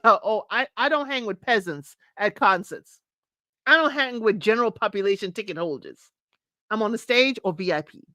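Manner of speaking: lightly mocking a haughty concertgoer; imitated snob. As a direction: put on a touch of snobbish disdain. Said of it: "She just said it like that".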